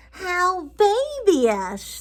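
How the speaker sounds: drawn-out mocking old witch; wicked old lady.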